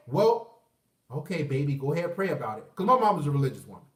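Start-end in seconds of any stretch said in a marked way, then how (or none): 0.1-2.7 a hint of a calm churchy mom; mom's voice. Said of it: "She gonna say".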